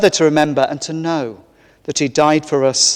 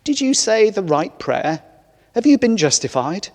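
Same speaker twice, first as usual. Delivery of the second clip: angel questioning; 6 semitones higher than usual. Acted. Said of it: "the angel replies".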